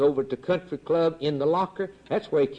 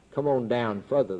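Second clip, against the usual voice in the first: lower, hushed call; the Lord calling, lowered; 4 semitones lower than usual. Retold or imitated. Preacher voicing the Lord's last call, low and hushed. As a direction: bring the call down low as he sinks.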